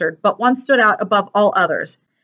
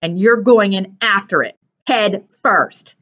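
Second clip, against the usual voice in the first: measured, contained threat; understated menace; through clenched teeth; slower than usual. Acted. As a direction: finish the warning through gritted teeth. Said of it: "said through clenched teeth".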